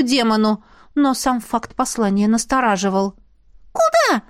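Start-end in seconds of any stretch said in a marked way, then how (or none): 3.7-4.2 hissed spirit question. Acted. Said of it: "прошипела Искра".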